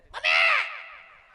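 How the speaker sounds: put-on long, high, very loud cry of a fallen child; child's wail. Fallen child calling his mother, with a long high wail. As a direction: wail for mummy like a hurt kid.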